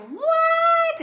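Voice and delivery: squeaky high shocked "What?"; mock viewer doing a double take; imagined shocked what. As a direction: jump way up into a startled "What?". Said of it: "this next may be like".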